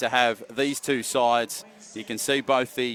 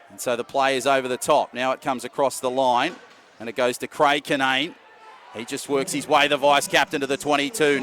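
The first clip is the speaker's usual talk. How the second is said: quick running match call; live play-by-play; 4 dB louder than usual. Real, not acted. Commentator calling the wheelchair rugby match live, running play-by-play. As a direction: call the action as it happens.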